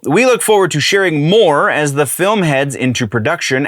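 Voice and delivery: stiff, stilted statement reading; wooden and stilted. Shown as a demonstration. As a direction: read it like a stiff press release. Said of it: "pardon me if I sound a little wooden and stilted".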